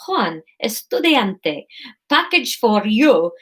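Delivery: slow, put-on Spanish accent; thick Spanish accent. Courier disguising her voice, thick Spanish accent. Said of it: "said Marine in a thick accent".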